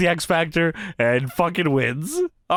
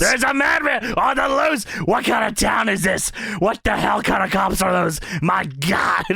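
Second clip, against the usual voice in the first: mock Vince yell; slower than usual. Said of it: "Vince is yelling".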